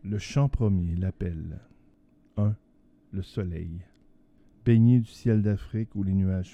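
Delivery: theatrical poem recitation; hammy stage actor. Acted. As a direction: declaim it like an old stage actor. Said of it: "Tu vas nous déclamer un poème".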